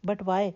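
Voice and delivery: lightly questioning "But why". A narrator's reading. Husband challenges his bride's demand, questioning. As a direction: put "But why" as a short, mild question. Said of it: "سوالیہ انداز میں بولا".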